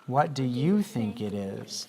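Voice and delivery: slow question, rising at the end; slow, clear teacher question with a rise; slow model reading. Shown as a demonstration. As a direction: read it slowly so they can copy. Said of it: "Listen carefully so you can repeat it with me".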